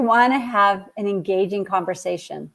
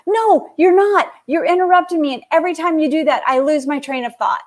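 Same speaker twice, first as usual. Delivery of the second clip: high, firm pushback; imitating the teen standing her ground; insistent daughter; 6 semitones higher than usual. Daughter insisting mom keeps interrupting, high and firm. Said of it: "She goes".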